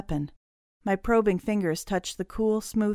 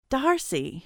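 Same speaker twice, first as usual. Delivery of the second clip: shouted; 7 semitones higher than usual. Acted. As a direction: call out high, holding the volume back. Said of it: "she shouted".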